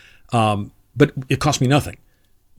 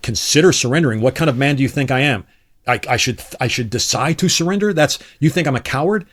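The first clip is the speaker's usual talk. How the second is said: offended indignation. Retold or imitated. Iraqi soldier hearing the surrender message, mock indignant. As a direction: bristle at being called a coward. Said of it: "That's horrifyingly offensive to them".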